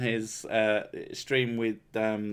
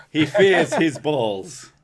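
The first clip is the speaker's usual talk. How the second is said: mock-solemn pronouncement; 4 semitones higher, 5 dB louder than usual. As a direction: intone it like an epic narrator.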